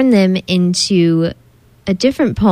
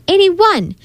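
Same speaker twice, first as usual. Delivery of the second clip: higher, a hammed-up kid's bellow; bellowed guess; 11 semitones higher than usual. A narrator's reading. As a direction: call it out like a kid sure he's right. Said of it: "George bellowed".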